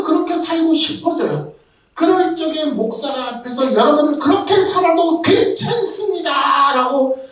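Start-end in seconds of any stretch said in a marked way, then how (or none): 3.7-7.2 high, loud pulpit announcement; a hint of a preacher declaring from the pulpit; mock proclamation. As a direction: play a pastor pronouncing it okay. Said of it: "선포해주면".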